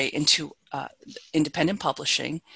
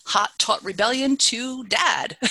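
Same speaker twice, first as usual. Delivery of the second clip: playful high-pitched quip; amused; 7 semitones higher, slower than usual. Real, not acted. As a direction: tease the poem line, amused. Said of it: "we're gonna go from hot".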